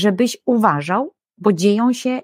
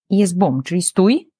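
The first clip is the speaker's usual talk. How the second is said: usual speaking voice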